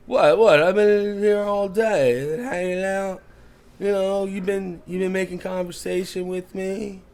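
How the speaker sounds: rising outrage, like he's been wronged; agitated drunk. Acted. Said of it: "the guy gets a little agitated at that".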